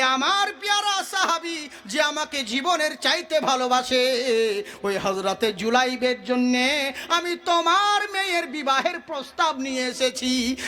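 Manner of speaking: slow intoned storytelling with long tails; melodic preaching. Acted. Preacher revealing the proposal is for Julaibib, slow chant. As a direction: chant it, stretching phrase endings.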